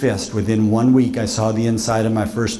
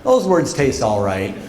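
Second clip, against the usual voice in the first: lightly voiced Buffy; slower than usual. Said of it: "this look like".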